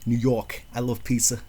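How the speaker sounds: thick New York accent, hammed up. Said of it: "Make fun of my New York accent".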